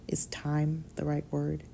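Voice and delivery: slow whispered deadpan; dry, no emotion, barely voiced. Deadpan whisper questioning her word choice. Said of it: "Impressive deadpan".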